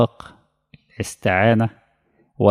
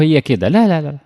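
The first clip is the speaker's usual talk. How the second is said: mock dismissive; 5 semitones higher than usual. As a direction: scoff at the lazy answer, raised high. Teacher mocks a curt answer.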